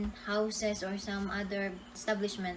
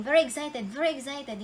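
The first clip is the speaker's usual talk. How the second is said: higher, eager retelling; excited; 4 semitones higher, 5 dB louder than usual. Retold or imitated. Telling how they went to dive the spring, excited. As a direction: relive the eagerness lightly.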